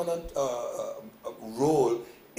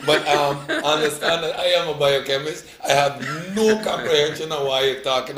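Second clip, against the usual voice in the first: laughing; 6 dB louder than usual. Real, not acted. Host laughs at own confusion.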